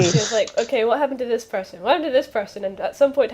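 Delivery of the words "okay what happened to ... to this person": mimicking a player.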